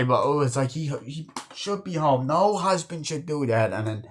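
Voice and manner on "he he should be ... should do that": higher, plaintive worried-wife imitation; Adam Sandler soundalike. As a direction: imitate a fretting wife in a raised pitch. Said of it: "that sounds like Adam Sandler".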